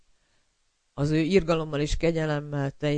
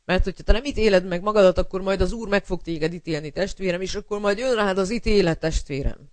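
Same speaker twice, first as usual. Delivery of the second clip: louder and faster, pressing the warning home; preaching warning; 3 semitones higher, 3 dB louder than usual. Acted. Preacher warning the brethren in a louder, faster push. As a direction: raise the voice and drive it at the listener.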